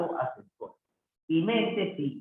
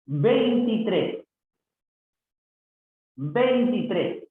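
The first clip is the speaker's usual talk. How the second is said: slow, higher-pitched word by word; sounded-out compound; 5 semitones higher, 3 dB louder, slower than usual. Shown as a demonstration. Teacher showing a compound number, slowly sounded out. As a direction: draw out both halves, pitched up.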